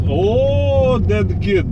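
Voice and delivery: loud, high drawn-out "oh"; startled exclamation. Real, not acted. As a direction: cry out in sudden alarm. Sudden exclamation during the job.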